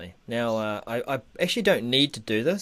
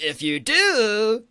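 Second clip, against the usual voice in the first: slow, high, loud movie drama; dramatic trailer voice; 8 semitones higher, 9 dB louder, much slower than usual. Pretend. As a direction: stretch it like a film trailer. Dramatic film-trailer take.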